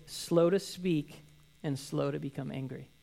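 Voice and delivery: drawn-out, deliberate scripture read; slow reading. Shown as a demonstration. Pastor reading James' verse slowly to the congregation. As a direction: lean on every word slowly. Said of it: "immediately he follows with".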